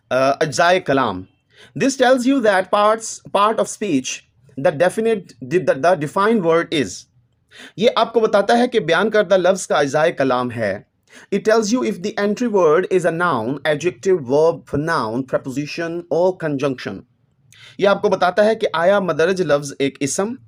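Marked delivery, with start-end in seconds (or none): 1.8-6.9 reads each English word slowly and deliberately; slow textbook reading. Acted. Teacher reading the book's English line to students, slow and measured. 11.3-17.0 reads each English word slowly and deliberately; slow textbook reading. Acted. Teacher reading the book's English line to students, slow and measured.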